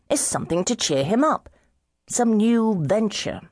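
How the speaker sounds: put-on slow, slurred tipsy young gentleman, groping for words; drunken slur. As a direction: drag it out like a man far gone in drink. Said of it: "You are three sheets to the wind".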